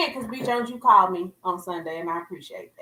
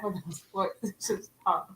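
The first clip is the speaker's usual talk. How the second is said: giggling through the show intro; laughing through it; 2 semitones lower, 8 dB quieter than usual. Real, not acted. Host opening the show, cracking up over grapes, laughing. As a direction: laughs break into the welcome line. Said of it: "I'm laughing 'cause".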